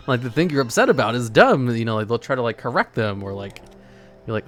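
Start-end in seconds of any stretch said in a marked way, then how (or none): 0.1-1.7 louder, said while laughing; laughing through it. Real, not acted. Laughing while restating the dismissive reply. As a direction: keep laughing as you repeat it.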